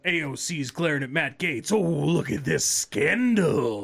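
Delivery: drawn-out sarcastic ooh; mildly hammed-up gossip; mock scandalized. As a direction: stretch it slowly in pretend shock. Mocks dull House drama.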